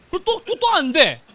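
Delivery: high, loud mock frantic stammer; flustered redo. Teacher mimicking a student erasing botched work, mock flustered. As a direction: act out a panicked test-taker erasing everything. Acted test-taker failing once more.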